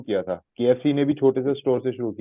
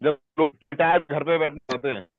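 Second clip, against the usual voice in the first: voice cutting out; 3 semitones higher, faster than usual. Real, not acted. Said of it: "आपकी आवाज cut रही है".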